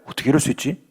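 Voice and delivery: low, soft hurt disbelief. Acted. Eve feeling slighted by God, low and hurt. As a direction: sound let down. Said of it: "하와가 하나님께 섭섭해요".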